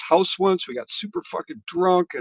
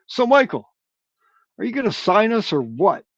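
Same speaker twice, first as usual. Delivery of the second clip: blurting it out with nervous guts; bold blunt question; 6 semitones higher than usual. Retold or imitated. Bandmate finally pressing the label scout to sign them, high nervous push. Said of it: "finally had enough balls".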